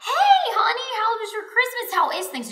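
very high, singsong friendly greeting, imitated; sweet doctor. Doctor greeting her patient after Christmas, sweet imitation. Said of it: "She was so sweet".

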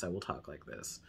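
very low, soft at-home voice; natural house voice. Shown as a demonstration. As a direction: drop well down in pitch and volume. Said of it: "Usually when I'm around the house".

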